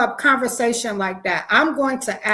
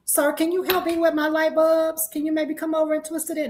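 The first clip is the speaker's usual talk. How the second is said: damsel in distress; 5 semitones higher than usual. Pretend. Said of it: "act like I'm just a damsel in distress".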